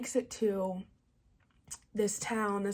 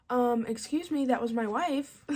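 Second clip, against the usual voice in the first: mock indignation, higher-pitched and a little louder; pissed-off monster; 3 semitones higher, 4 dB louder than usual. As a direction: play an offended monster, half-joking. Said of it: "The monster's pissed".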